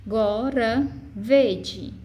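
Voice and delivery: "gora vede" slowly, with weight on VE and a light final de; tônica no ve. Shown as a demonstration. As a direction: measure out "gora vede", stressing VE. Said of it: "é a última sílaba tônica". ("gora vede" devagar, com força no ve)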